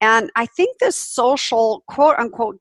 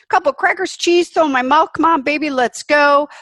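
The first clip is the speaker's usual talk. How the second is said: rushed self-mock; 7 semitones higher, 5 dB louder than usual. Mimicking her own rushed lunch.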